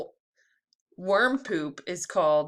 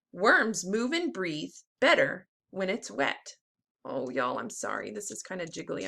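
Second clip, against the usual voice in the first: put-on lively storybook read-aloud for kids; teacher reading a worm book to the class; reading to children. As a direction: read it like circle time, bright and clear. Teacher reads picture book aloud.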